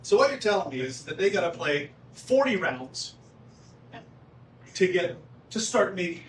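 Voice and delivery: lightly voiced impression of a colleague objecting; Craig impression. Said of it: "I'll do my best Craig impression".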